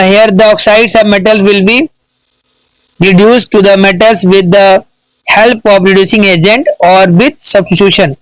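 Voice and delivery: slow, word-by-word reading of an English answer; slow dictation. Acted. Teacher dictating an answer to students, slow careful reading. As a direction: dictate it slowly so students can write.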